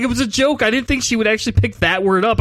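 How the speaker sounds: high-pitched defensive excuse; mock pleading. Babysitter excusing himself to the mom, mock pleading. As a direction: protest in comic panic.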